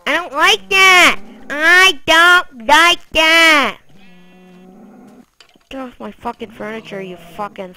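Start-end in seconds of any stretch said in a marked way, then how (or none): 0.1-1.2 louder, higher whiny protest; loud complaint. Real, not acted. Complaining about pet. 1.5-3.8 slow, stretched, louder whine; drawn-out repeat. Real, not acted.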